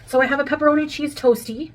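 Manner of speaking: talking around a mouthful; chewing while talking. Real, not acted. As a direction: speak while chewing food. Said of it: "I'll talk while I'm eating".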